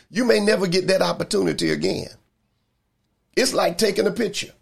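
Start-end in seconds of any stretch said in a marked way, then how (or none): 0.1-2.1 "you may never get that opportunity again" pitched high and quick; emphatic. Real, not acted. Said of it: "putting emphasis on this".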